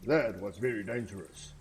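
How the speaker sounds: a lightly voiced old guardian tree, chiding then wry; wise tree guardian. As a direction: read it as a kindly old tree scolding a reckless hero. Reading tree NPC dialogue.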